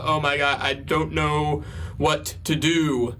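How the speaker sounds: slow, understated mock helplessness; mock despair. Retelling a mother going crazy, mock despair. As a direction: draw it out as if at a loss. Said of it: "she's still going crazy".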